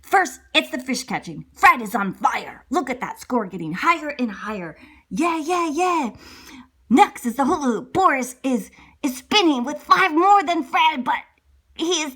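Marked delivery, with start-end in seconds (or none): 5.1-6.1 cheering. Acted.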